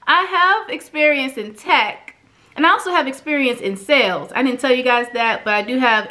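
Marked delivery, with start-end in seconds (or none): 0.1-4.3 realizing. Retold or imitated. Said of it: "I said".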